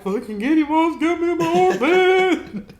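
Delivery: very high, loud stung yell; pained shout. Retold or imitated. Telling dad about the armpit sting, pained yell. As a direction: yell it out still in pain.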